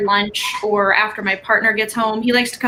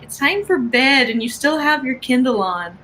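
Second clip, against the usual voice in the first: whiny partner; 3 semitones higher than usual. Retold or imitated.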